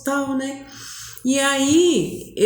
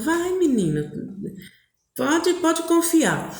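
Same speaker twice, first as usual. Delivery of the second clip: coaxing encouragement; 7 semitones higher than usual. Retold or imitated. Friend urging a shy girl on, coaxing.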